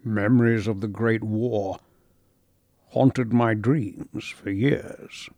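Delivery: quiet, very slow remembering; haunted memory. Acted. Lewis telling of war dreams, slow and haunted. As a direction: let the memory weigh on each word.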